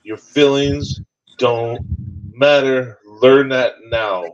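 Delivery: slow, firm, each word laid down; stern slow lesson. Retold or imitated. Father telling his daughter a hard truth, slow and firm. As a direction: lay down the law slowly. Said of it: "she looks at me and I go".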